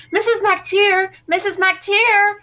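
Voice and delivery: high, slow tattletale holler; Rosemary hollering for Mrs. McTeer from the bushes. A narrator's reading. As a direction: call out long and loud for the neighbor's mother. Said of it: "Rosemary hollered".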